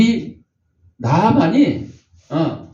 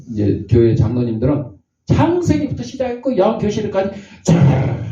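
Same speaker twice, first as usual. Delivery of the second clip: rebuking; 3 semitones higher than usual. Retold or imitated. God rebukes Moses for scolding the boy, mock anger. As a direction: put Moses in his place, half joking. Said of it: "하나님이 오히려 모세를 야단치는 거야".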